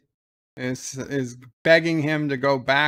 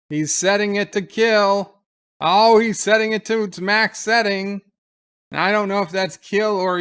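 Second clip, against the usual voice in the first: much higher, louder alarmed outburst; 5 semitones higher, 5 dB louder than usual. Real, not acted. Viewer watching O'Brien set the phaser to kill, loud alarm. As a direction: cry out in shock at what he's doing.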